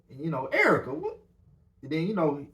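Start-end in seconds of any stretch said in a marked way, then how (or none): 0.5-1.2 put-on high, louder call to his girl; calling her name. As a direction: call out to her across the line, confused. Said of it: "then he said".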